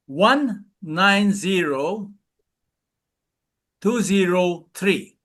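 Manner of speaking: slow, spaced digits; slow number dictation. Shown as a demonstration. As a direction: say each digit slowly and clearly. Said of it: "I'd like you to remember a number".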